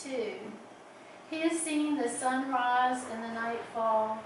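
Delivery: measured poetry reading with pauses between phrases; lingering on line endings; poem reading. Acted. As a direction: read your poem aloud in unhurried, deliberate phrases. Reads own poem aloud.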